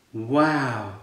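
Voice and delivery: plain reading voice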